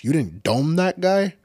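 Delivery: high, loud furious chief yelling; angry shout. Retold or imitated. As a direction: chew him out and take his badge, loud and high. Imagined chief yelling at cop.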